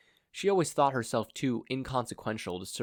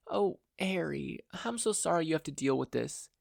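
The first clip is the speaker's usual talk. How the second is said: higher, gentle big-brother voice, lightly voiced; Izuku voiced; 7 semitones higher than usual. Lightly voiced big brother comforting his sister. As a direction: soothe a frightened little sister.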